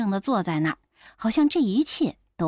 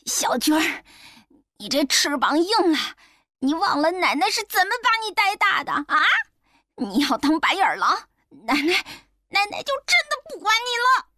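大声说; 7 semitones higher than usual. Acted. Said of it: "大声说".

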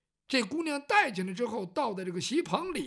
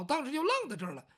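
ordinary delivery

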